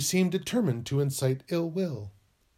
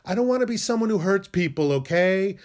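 defensive outburst; 4 semitones higher, 5 dB louder than usual. Acted.

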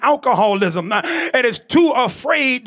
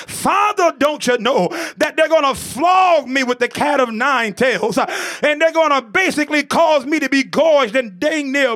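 pleading Jesus. Acted. Jesus in the garden begging the Father, pleading prayer. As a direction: plead with the Father, rising on every cry. Voices Jesus praying in Gethsemane.

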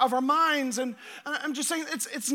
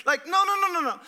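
higher, dismissive no's; mock protest; 5 semitones higher, faster than usual. Pastor brushing off bad theology, mock protest. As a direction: wave the idea away with a chuckle.

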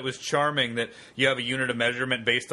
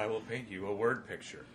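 soft ASMR imitation, much softer; 2 semitones lower, 9 dB quieter than usual. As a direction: hush it like an ASMR video. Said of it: "total A S M R right now".

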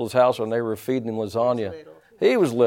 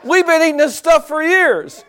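high, loud mock exclamation; hammed-up retold outburst, climbing higher; husband's excited outburst; 12 semitones higher, 4 dB louder than usual. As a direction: burst out as the vindicated husband. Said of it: "he threw his spoon down and said".

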